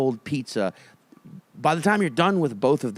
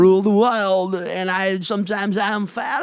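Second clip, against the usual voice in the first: voice of God; 6 semitones higher than usual. Pretend. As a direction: proclaim it like an odd god. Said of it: "I'm doing the voice of God".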